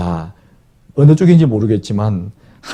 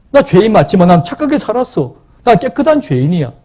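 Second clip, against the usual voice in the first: self-righteous sinner. Acted. Proud sinner voiced in sermon.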